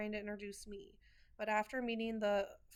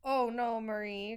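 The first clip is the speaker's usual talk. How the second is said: grandpa voice; 7 dB louder than usual. Retold or imitated. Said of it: "Grandpa says".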